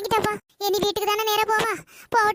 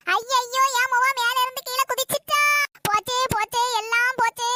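high, frantic mock wailing; mother's high comic lament, overdone; panicked wail; 5 semitones higher than usual. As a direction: wail in hammed-up panic that she jumped. Mother thinks daughter jumped.

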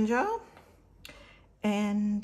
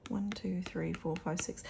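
whispered counting; 7 dB quieter than usual. Real, not acted. Counting envelopes softly.

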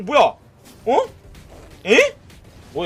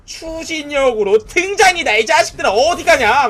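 taunting shout; 5 semitones higher, 6 dB louder than usual. Real, not acted. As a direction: jeer at the fleeing enemies. Taunting enemies mid-fight. (적을 도발하며 크게 외침)

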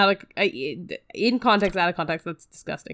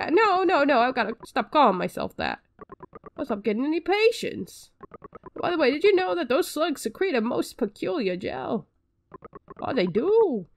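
put-on slightly higher lisping old doctor, slowed; lightly voiced quack doctor, lisping; a hint of a lisping doctor greeting the hero; character with a lisp; 4 semitones higher than usual. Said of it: "I don't know who he talks like that".

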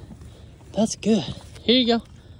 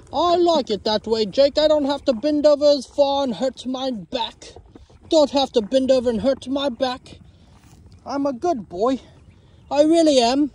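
voicing the cow. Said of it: "why do they both have that kind of accent".

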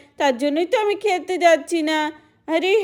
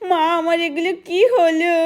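crying to mother. Acted. Guddu now sick, calls mother.

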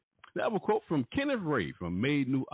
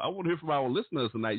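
ordinary talk, nothing marked

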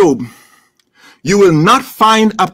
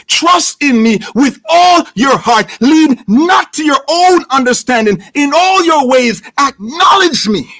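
higher-pitched, ringing recitation; fervent scripture preaching; 4 semitones higher than usual. Real, not acted. Preacher quoting God's call to trust, fervent preaching. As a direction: proclaim the verse with conviction.

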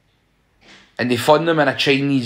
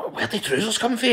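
laughing puzzlement; 8 semitones higher, 7 dB quieter than usual. Retold or imitated. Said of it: "You were just like".

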